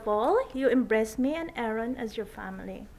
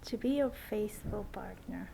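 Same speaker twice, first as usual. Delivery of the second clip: saying wedding vows; 3 semitones lower than usual. Real, not acted. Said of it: "would you repeat after me?".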